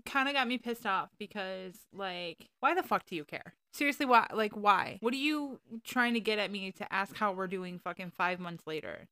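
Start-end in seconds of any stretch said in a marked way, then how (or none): 2.6-6.7 exasperated outburst. Real, not acted. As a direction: throw up your hands, demanding why. Venting about ex's message.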